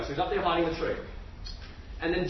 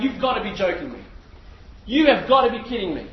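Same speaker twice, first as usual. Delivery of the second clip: indignant; 4 dB louder than usual. Acted. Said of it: "They are really, really angry".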